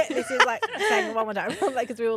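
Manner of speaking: can't stop laughing at how unbelievable it was. Real, not acted.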